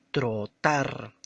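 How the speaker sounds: "trotar" split into tro and tar; short pause between "tro" and "tar"; syllable by syllable. Shown as a demonstration. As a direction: sound out "trotar" slowly in two beats. Teacher sounds out two syllables.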